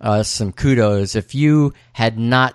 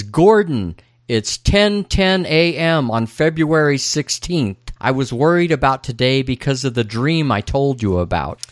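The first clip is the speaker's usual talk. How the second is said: higher, slowed, deliberate character reading; young Cooper reporting; 4 semitones higher than usual. Acted. Podcaster voicing young Cooper to Gordon, deliberate. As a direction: report it formally with lifted pitch.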